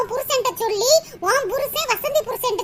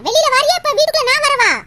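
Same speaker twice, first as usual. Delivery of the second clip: higher, louder threat at the door; angry yell; 4 semitones higher, 4 dB louder than usual. Acted. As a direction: demand she come out now. (கோபமான கத்தல்)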